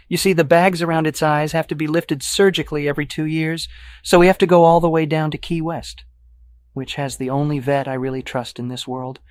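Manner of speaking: high-pitched, affected, loud chatter; gushing dog owner. Acted. Dog owner explains surgery to stranger, high and gushing.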